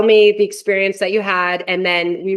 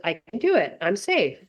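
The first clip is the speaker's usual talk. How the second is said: calm inner voice; 6 dB quieter than usual. Retold or imitated. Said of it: "the voice that says".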